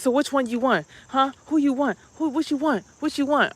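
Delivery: pushy mom. Retold or imitated. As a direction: press her again and again like a pushy mom. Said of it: "she comes back and she says".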